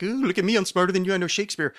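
mock a know-it-all, smugly; sarcastic. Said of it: "some sarcastic".

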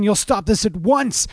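loud, high command; captain ordering Q to stop; captain's order. Acted. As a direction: lay down the law. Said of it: "cried the captain".

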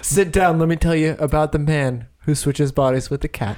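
mock French accent, inviting and theatrical; Christophe. Studio head pitching the cat story, mock French accent. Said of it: "in his heavy French accent".

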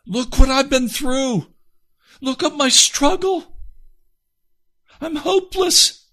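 very high, loud cry of outrage; enraged outcry. Retold or imitated. Man protesting to God about his struggle, enraged. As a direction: hurl it at God, voice climbing to a desperate peak. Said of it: "ignited a firestorm of rage in my heart".

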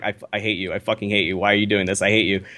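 low, understated imitation of an irritated friend; mock seething under the talk, pitched low; seething aside. Friend seething beside him at counter.

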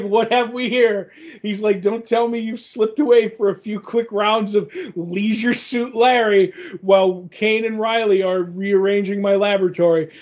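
a hint of a gloating mad scientist; villain voice.

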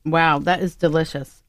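talking through a mouthful of food; mouth full. Real, not acted. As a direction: speak around a bite of food, mouth full. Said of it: "you got me with my mouth full".

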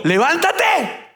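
grito agudo y estirado, muy lento; alárgalo como un capitán que despierta a alguien; grito del capitán. Retold or imitated. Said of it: "le gritó". (el capitán grita a Jonás que se levante, grito alargado)

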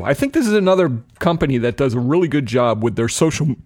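words broken by a burp; burping while talking. Real, not acted. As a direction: talk through a small burp. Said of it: "excuse me, I'm burping now".

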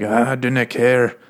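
drawn-out hammed-up Scottish brogue; mock Scottish accent. Scotsman shrugging off the heroine's confession, mock Scottish accent. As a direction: stretch it out in a put-on Scottish accent. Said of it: "This is how I heard her voice".

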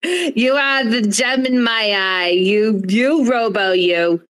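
hammed-up New York mother, proud and fussing; Jewish New York mother. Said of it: "is it the Jewish New York mother?".

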